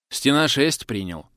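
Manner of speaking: radio report. Acted. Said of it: "доложил я".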